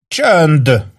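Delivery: high, commanding hush; understated high-pitched bellow; mild yell. A narrator's reading. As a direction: order silence like a drill sergeant. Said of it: "üvöltötte az alak".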